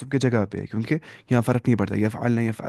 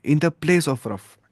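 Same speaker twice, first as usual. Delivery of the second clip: very slow, spelled-out translation; teacher slowly glossing the Arabic term; much slower than usual. Shown as a demonstration. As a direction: spell the meaning out word by word. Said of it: "इसे हम बोलेंगे फ़ी महल रफ़इन".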